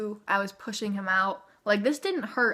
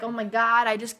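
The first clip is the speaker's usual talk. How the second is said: newborn's imagined voice; 4 semitones higher, 3 dB louder than usual. Retold or imitated. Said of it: "he's like".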